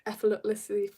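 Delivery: "Effortlessly" fumbled with an extra l sound; botched pronunciation. Real, not acted. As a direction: stumble through "Effortlessly" as "effletessly". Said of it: "that was brutal".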